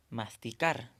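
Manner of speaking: "Masticar" stressed on the last syllable, car; stress on final syllable. Shown as a demonstration. Teacher giving a similar example, stress on final "car" of "Masticar". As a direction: put the force on "car" in "Masticar". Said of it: "la sílaba tónica es la última".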